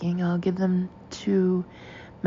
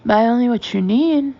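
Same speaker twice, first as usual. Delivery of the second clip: higher, louder incredulous echo; scandalized disbelief; 4 semitones higher, 7 dB louder than usual. A narrator's reading. Manageress echoing the narrator, appalled and incredulous. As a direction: repeat it as if it were blasphemy. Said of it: "as though I've uttered something unspeakably profane".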